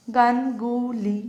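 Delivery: "গানগুলি" slowly in three separated parts; syllable by syllable. Shown as a demonstration. Teacher pointing out three syllables, syllable by syllable. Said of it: "তিনটে".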